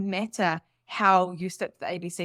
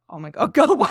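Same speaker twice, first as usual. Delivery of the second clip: louder, laughing go away; laughing exasperation; 2 semitones higher, 10 dB louder, faster than usual. Retold or imitated. Her husband telling her off, laughing exasperated. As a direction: laugh through his fed-up line. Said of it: "he's just like".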